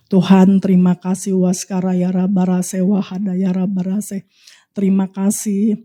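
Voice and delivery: low, slow, chant-like prayer; prayer in tongues. Real, not acted. Preacher thanks God in tongues before prophesying, prayerful. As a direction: pray slowly on a low, level pitch.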